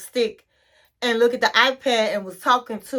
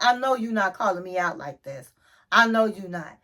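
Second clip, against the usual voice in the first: lower, softer retold disbelief; understated mock menace, pitched down; low warning; 5 semitones lower, 3 dB quieter than usual. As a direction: imitate a man quietly warning his friend. Retold Jovi warning quietly.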